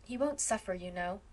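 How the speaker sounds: a touch of tenderness; comforting. Acted. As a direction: ease her guilt kindly. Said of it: "comforted Phil".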